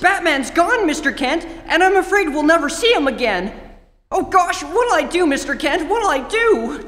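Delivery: put-on a scared boy fighting his tears; distraught, near tears. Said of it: "choking back tears".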